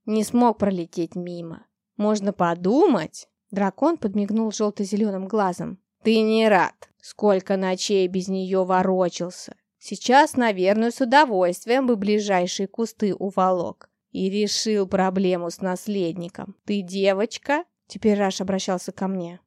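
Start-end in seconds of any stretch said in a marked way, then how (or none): 0.0-3.3 dragon voice. Acted. Dragon answers the master teasingly. 6.0-17.6 teasing dragon. Acted. Dragon teases the master.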